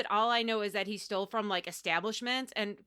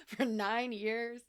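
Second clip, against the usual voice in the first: put-on sassy girlfriend scolding; 3 semitones higher, 4 dB louder than usual. Scolding Zerelda as a friend.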